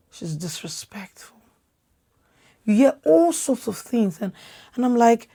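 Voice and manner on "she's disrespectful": mock judgment. Others judging an outspoken woman.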